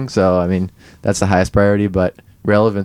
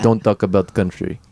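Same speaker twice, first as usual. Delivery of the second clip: imitating a light Russian accent; a hint of Russian accent. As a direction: echo the mock Russian accent. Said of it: "So, like, in that Russian accent".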